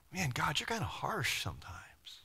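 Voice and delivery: unvoiced whisper of a gripe; whispered grumble about God's harshness; whispered complaint. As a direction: whisper it like you fear God hears. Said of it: "Have you ever thought".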